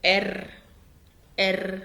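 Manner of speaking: ار said low and clearly as the letter name; German letter name. Shown as a demonstration. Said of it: "ندخل على الحرف اللي بعده". (نطق اسم الحرف ار بالألماني)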